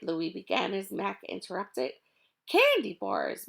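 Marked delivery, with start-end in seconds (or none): 2.5-3.5 loud, slow announcement; shouted. Acted. Mac shouts the real cargo at the thieves, loud. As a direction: shout it out gleefully. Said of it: "Mac shouted".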